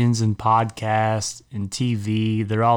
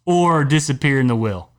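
outraged rant; 8 semitones higher than usual. Real, not acted.

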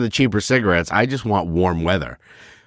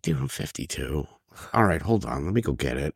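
retold reply; 7 semitones lower, 8 dB quieter than usual. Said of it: "I'm like".

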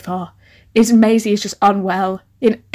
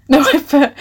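laughing; 4 semitones higher, 4 dB louder than usual. Real, not acted. Laughing at misreading.

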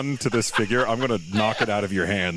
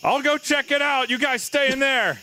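high nervous character voice; 13 semitones higher than usual. Acted.

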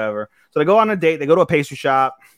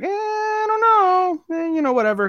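mock reluctant. Kelvin dodging the guild's request, whiny and reluctant. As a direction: hem and haw in a pitched-up whine.

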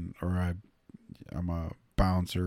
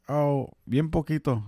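higher-pitched, drawn-in modest little reply; playing modest; 7 semitones higher than usual. Answering Mexican girls who asked about Spanish, playing modest. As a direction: play down your ability in a high voice.

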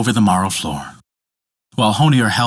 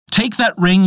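dwarf yelling; 8 semitones higher than usual. A narrator's reading. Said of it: "yelled the dwarf".

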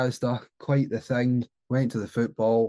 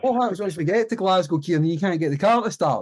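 higher-pitched, incredulous questioning; retold exasperated challenge; 6 semitones higher than usual. Passenger challenging his mate over the faulty car, incredulous and higher. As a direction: press the point in mock exasperation.

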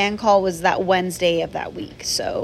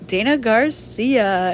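awkward roll call; much slower than usual. Retold or imitated. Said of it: "so awkward".

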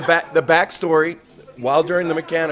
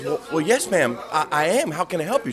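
flustered Southern purser; 3 semitones higher than usual. Retold or imitated. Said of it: "a Southern North Carolina girl with a, with a, a nice drawl".

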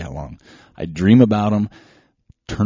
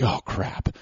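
a hushed, breathy panicked aside under the breath; whispered oh crap; 5 dB quieter than usual. Retold or imitated. Runner at the start line with empty flasks, whispered panic. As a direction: mutter it to yourself as panic sets in.

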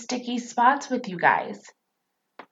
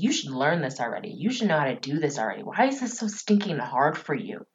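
frustrated parent; 4 semitones lower, 4 dB quieter than usual. Retold or imitated. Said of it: "get really frustrated with them and be like".

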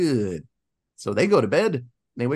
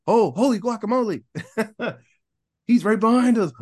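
mock panic; 7 semitones higher, 4 dB louder than usual. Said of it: "they start freaking out".

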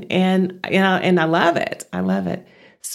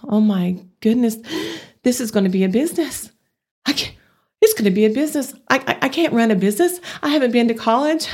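higher, rushed and stammering with rising panic; reliving her freeway panic attack over running a business, anxious and breathless; panicked inner voice; 5 semitones higher, faster than usual. Retold or imitated. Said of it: "it occurred to me".

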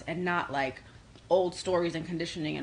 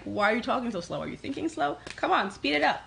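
higher-pitched impatient prodding; mock frustration; 4 semitones higher than usual. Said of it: "I get very frustrated".

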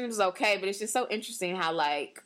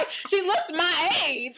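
slow, high laughing aside; 8 semitones higher, much slower than usual. Real, not acted. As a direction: laugh through the words, amazed. Still laughing, amazed.

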